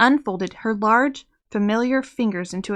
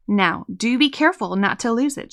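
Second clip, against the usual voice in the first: teasing. Acted. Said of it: "she teased him".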